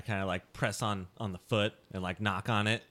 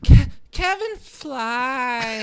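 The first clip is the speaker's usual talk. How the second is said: dazed, drugged character; 5 semitones higher, 16 dB louder than usual. Acted. Drugged Skylar watching a friend get kicked away, loud dopey wonder.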